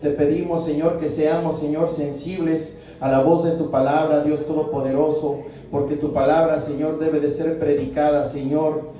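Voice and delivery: steady, pleading prayer voice calling on the Lord; earnest pastor's prayer, each line closed with Señor; fervent prayer. Acted. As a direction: pray aloud to God for the whole congregation. Pastor leads congregation in prayer.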